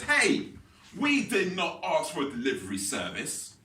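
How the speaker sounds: slow, emphatic calling out; mock shout. Restaurant lady to delivery rider, mock shouting over. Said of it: "she shouts over".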